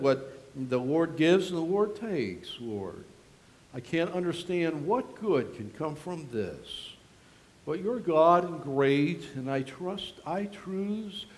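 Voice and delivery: soft, hushed, grieving prayer; a hint of broken-hearted pleading; retold crying out to God. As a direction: pray it quietly, as if alone in grief. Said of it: "just cried out to the Lord".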